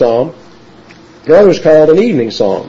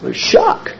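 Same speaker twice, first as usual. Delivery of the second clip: "shock" breathed out with no voice; hushed shock; 4 dB quieter than usual. Shown as a demonstration. Preacher telling the congregation how tragedy feels, whispered. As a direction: whisper "There's shock" as if stunned. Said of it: "preacher whispering shock".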